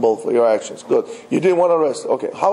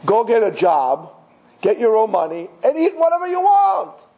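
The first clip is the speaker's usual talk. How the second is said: mock retort; 4 semitones higher than usual. Rabbi's retort to complainer.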